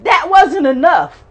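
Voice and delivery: high, loud building cry of loss; grieving mother listing losses, building to a cry; rising lament. Real, not acted. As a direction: preach your grief to the rafters.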